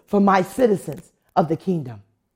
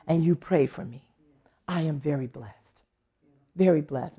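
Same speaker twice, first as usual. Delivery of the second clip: sincere thanks; 2 semitones lower, 5 dB quieter than usual. Retold or imitated. Heartfelt thanks to the praying deacon.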